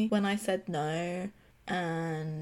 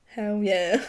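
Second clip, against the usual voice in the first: whispered eager agreement; 5 dB louder than usual. Real, not acted. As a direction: whisper it like a shared secret.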